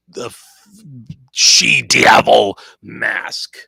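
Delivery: building to loud, slow, dramatic announcing; hammed-up announcer. Warning viewers that Chloe faces Mask, building hammed-up announcer voice. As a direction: swell into a booming warning of doom.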